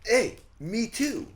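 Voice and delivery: high, slow silly tourist voice; high, slow mock American tourist. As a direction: play a goofy loud American. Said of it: "Did you go".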